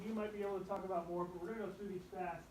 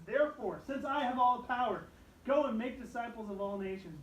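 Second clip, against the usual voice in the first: commanding proclamation; 4 semitones higher, 8 dB louder than usual. Acted. Quoting Jesus commissioning disciples.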